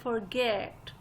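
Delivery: forget with a light FOR and a stressed GET. Shown as a demonstration. Teacher echoing a pronunciation clip, stressing GET in forget. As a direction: lean on the second syllable of forget. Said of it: "get पे stress था".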